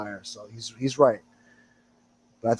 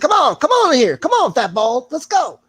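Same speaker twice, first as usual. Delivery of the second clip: loud, very high-pitched taunting challenge; imitated flipping out; 7 dB louder than usual. Mocking an old guy challenging someone in chat, high excited yelling. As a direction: mimic a hothead yelling for a fight. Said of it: "he was flipping out on me".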